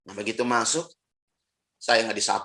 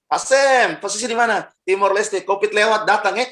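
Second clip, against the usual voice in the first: phone caller; 8 semitones higher, 5 dB louder than usual. Retold or imitated. Acted phone call.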